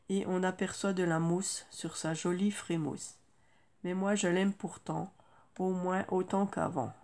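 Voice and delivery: put-on measured recital of a children's poem; poem reading. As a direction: recite it line by line, pausing after each verse, easing down toward the end. Reads out a poem.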